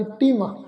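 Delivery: ਤਿਮ with short i closing on m; short nasal i. Shown as a demonstration. Teacher showing the congregation the spelling, ਤਿਮ with short nasal i. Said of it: "ਤੱਤੇ ਨੂੰ ਸਿਆਰੀ ਉੱਪਰ ਟਿੱਪੀ".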